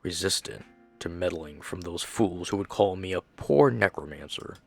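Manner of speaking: lightly voiced anguished father, subdued; grieving father's notes.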